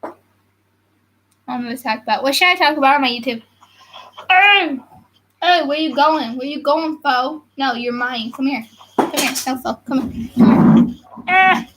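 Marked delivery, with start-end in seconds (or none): 4.3-11.6 grappling with a squirming cat; strained while holding down a pet; wrestling a cat. Real, not acted. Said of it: "I'm wrestling a cat".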